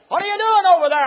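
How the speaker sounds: loud, high demanding question; booming preacher playing God; God questioning Adam. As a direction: call him to account from afar.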